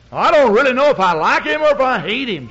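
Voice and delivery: retelling a weeping woman's torn confession; imitating sobbing woman. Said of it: "she was sobbing and weeping".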